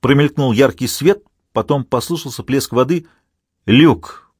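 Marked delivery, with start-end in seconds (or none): 3.7-4.3 exclaiming. A narrator's reading. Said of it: "воскликнул Дагоста".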